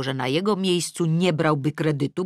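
ordinary delivery

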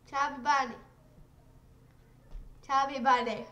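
talking through stuffed cheeks; mouth full. Real, not acted. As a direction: say it with a mouthful of marshmallows. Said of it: "You look like a chipmunk".

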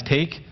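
a rising take; stress on take. Shown as a demonstration. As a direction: lift take with a rising tune. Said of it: "if you emphasize".

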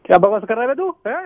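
real, loud irritated challenge; angry. Real, not acted. Customer confronts the agent's interrupting boyfriend, real anger. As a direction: challenge him loudly, fed up. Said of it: "आप गुस्सा मत करिए".

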